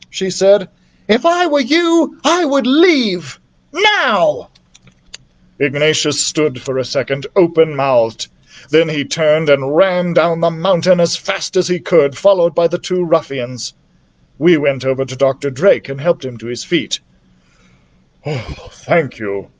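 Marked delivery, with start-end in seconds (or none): 1.1-4.5 put-on stern girl voice. A narrator's reading. Beatrice threatens Ignatius. 18.2-19.5 put-on weak old man. A narrator's reading. Doctor Drake, weak, rescued.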